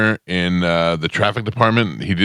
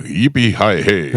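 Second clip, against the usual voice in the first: mock country liner, pitched up; country voice guy; 3 semitones higher than usual. Country guy voicing for a Japanese station, mock cowboy read. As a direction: imitate a hokey yippee for a radio read. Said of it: "then he'd be like".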